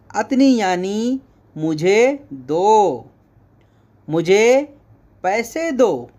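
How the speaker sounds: usual speaking voice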